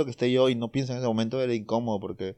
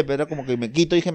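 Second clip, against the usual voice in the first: ordinary talk, nothing marked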